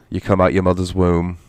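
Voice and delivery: slipping into a British accent; a touch of British on the words. Real, not acted. Explaining the game's opening, slipping into a British accent. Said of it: "I did that in a British accent".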